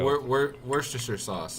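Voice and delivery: Worcestershire said as "WUR-stuh-sur" after false starts; Worcestershire tried out haltingly, as in the sauce; attempted pronunciation. Shown as a demonstration. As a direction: stumble into Worcestershire as "wurstersher". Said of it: "how would you pronounce the name".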